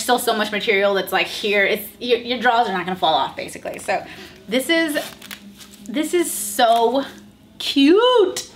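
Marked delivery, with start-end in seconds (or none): 5.8-8.5 drawn out delight. Real, not acted. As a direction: stretch it out, then squeal cute. Delight at outfit.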